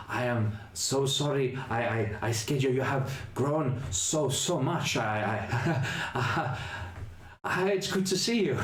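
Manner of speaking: high, gentle ghoulish voice; apologetic ghoul reaching out a hand; Otto the ghoul. Acted. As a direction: speak as a timid, kindly monster. Otto speaks again.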